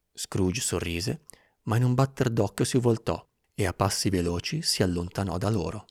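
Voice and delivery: usual speaking voice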